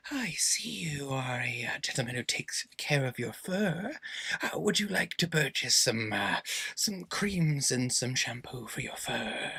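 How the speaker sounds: slow, soft whispered pitch; whispering shampoo seller. Acted. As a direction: sidle up and sell it quietly. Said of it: "walk up beside you and go".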